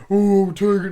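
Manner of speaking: a squeaky, high, too-cute Tiger voice; lightly mock a high girly voice; high-pitched mock Tiger. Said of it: "I don't want her to be like".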